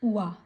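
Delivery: "उआ" repeated as an isolated wa; teacher's model of oi as "उआ"; French oi sound. Shown as a demonstration. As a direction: say "उआ" on its own, oo gliding to ah. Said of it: "ओ आई है जो वो है उआ".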